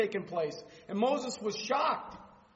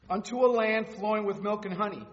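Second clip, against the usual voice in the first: scripture reading. Acted. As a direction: read God's words with authority.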